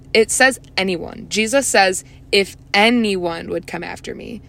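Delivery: "anyone" picked out with firm, emphatic stress; emphasis on "anyone". Shown as a demonstration. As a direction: lean hard on the word "anyone". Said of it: "wanna put an emphasis real quick".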